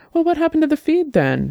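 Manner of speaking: very high, fast, anxious, panicky rush. A woman keeps pressing Dex after he says he is fine, with notes of panic. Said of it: "notes of panic still evident in her voice".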